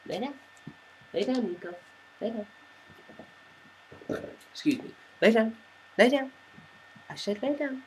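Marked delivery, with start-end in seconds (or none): 5.2-7.8 higher, sharper lay down commands; firm command. Real, not acted. Owner ordering dog Nico to lie down, firm and higher. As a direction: snap it out, losing patience.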